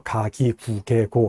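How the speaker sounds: 가기구개코 with soft Korean g consonants; Korean sound. Shown as a demonstration. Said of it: "하면은 한국어 같고요".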